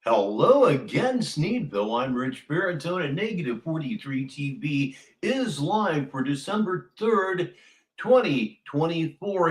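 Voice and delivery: upbeat live show opener, greeting the town; show host intro. Acted. Host greeting his viewers, announcer-style opener. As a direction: welcome the viewers like a local TV host.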